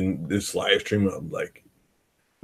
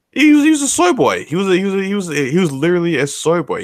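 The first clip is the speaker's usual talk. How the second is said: mocking high voice; 10 semitones higher, 5 dB louder than usual. Real, not acted. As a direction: pitch way up to mock. Mocking the soy boy label.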